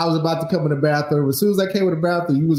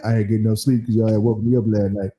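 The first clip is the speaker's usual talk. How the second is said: retold grumpy exhaustion; 6 semitones lower, faster than usual. Acts sleepless wife's grumpy answer.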